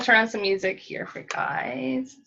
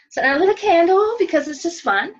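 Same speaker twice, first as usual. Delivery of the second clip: laughing; 7 semitones higher than usual. Real, not acted. Laughs at own candle.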